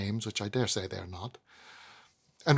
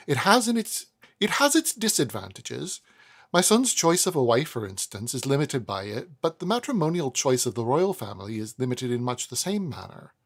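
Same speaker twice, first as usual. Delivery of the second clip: put-on proud old lady. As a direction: confide grandly about the royal family comparison. Mrs Woodcourt voiced.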